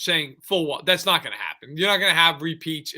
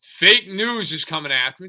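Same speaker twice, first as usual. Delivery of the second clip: mocking Rodgers; 7 dB louder than usual. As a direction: ham up the defiant quarterback. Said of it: "puts his gross foot up on the platform and say".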